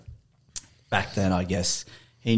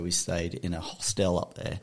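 softer, talking away from the mic; 6 dB quieter than usual. Real, not acted. Storyteller pointing at the bench by mistake, off-mic. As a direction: say it softly, aimed off the microphone. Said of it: "I'm pointing at the bench".

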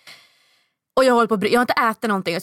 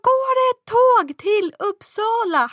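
high, frantic plea near tears; desperate pleading; 13 semitones higher, slower than usual. Retold or imitated. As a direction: beg the agent, on the verge of breaking down. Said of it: "Jag bara". (förtvivlad bön nära gråten)

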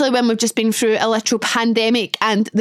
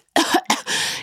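demo cough; 3 dB quieter than usual. Shown as a demonstration. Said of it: "yes, this is the ick".

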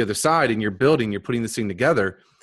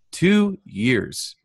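higher, stunned repeat of two years; amazed echo; 7 semitones higher than usual. Retold or imitated. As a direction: say it in disbelief. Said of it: "amazed repeat".

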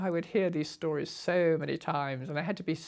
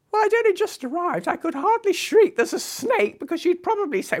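amused; 13 semitones higher, 7 dB louder than usual. Real, not acted. Retold reply, voice raised.

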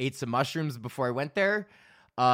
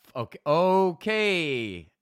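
slow, stammering give-up; flustered magician; 4 semitones higher, 4 dB louder, much slower than usual. Retold or imitated. Beaten magician giving up, slow and flustered. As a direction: fumble the okays.

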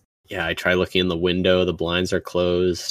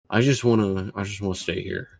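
put-on town drunk. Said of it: "like, slurring his words and stuff".

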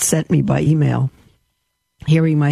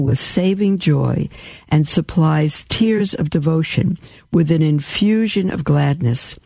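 devotional reading; 2 semitones higher than usual. Acted. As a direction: read it like a prayer of praise. Reads papal bull aloud.

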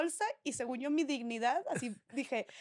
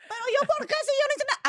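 much higher, louder pleading protest; retold protest; 13 semitones higher, 5 dB louder, faster than usual. To the guard dragging her out, a high indignant protest. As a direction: plead your innocence in a high voice. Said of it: "Y yo".

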